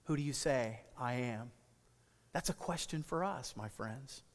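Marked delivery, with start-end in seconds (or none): 0.1-1.5 soft repeat. Shown as a demonstration. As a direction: let the question sink in softly. Preacher repeats the question softly.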